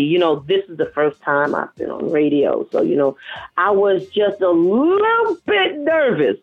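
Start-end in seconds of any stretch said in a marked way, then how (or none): 3.6-6.4 drawn-out confession. Real, not acted. Confessing nerves, stretched playfully.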